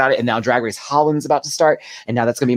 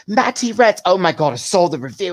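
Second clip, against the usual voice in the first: high, gushing fan voice; excited fans; 7 semitones higher than usual. Retold or imitated. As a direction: squeal as if you just spotted a star. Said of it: "they were just like".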